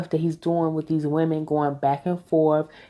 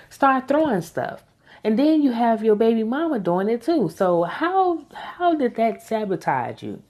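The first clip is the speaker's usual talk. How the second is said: higher, fed-up scolding of Lawrence; exasperated rant; 4 semitones higher than usual. Real, not acted. Viewer scolding a TV character, exasperated and higher. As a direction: tell him off like he can hear you.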